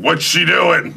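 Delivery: high, loud suspicious worry; nervous son. Retold or imitated. Son eyes the stewardess, high nervous worry. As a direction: fret at the stewardess. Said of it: "stewardess scene".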